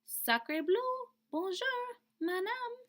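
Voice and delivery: high, dainty duckling voice; a newborn duckling politely greeting; high little duckling; baby duck greeting. Acted. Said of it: "looked up at Jack and said".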